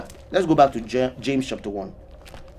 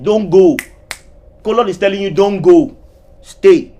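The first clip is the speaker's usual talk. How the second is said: louder, pleading "Don't go. Stay."; loud plea; 2 semitones higher, 7 dB louder than usual. Acted. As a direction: call them back. Preacher voicing colon's plea.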